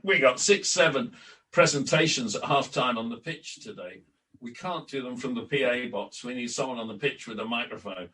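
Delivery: imitating a Yorkshire accent. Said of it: "in his Yorkshire accent".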